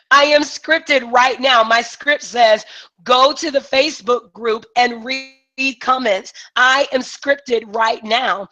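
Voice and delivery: deliberate, emphatic script reading. Shown as a demonstration. Coach showing clients she is scripted, emphatic. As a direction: stress each phrase with some excitement. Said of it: "I read it with emphasis".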